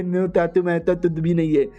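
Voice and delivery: put-on baby-talk parroting of an excuse; sneering imitation in mushy consonants; mocking mimicry. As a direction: parrot it back with garbled, lisped sounds. Mother-in-law mimics his denial.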